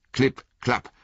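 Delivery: klipp, klapp echoed high like hooves; second hoofbeat klipp klapp. A narrator's reading. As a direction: repeat the hoof sound.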